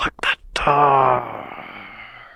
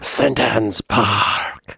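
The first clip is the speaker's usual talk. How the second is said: very slow Bristol accent imitation; much slower than usual. Echoing Doreen's school name, in a slow Bristol accent. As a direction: drag it out like a Bristolian. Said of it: "It's fun to talk like that".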